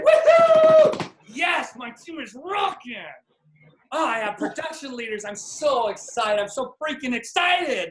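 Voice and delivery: high, whooping, overjoyed declarations; excited affirmation. Shown as a demonstration. Coach shows the right way to affirm, overjoyed and high. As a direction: shout it like you already won. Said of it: "how to do an affirmation".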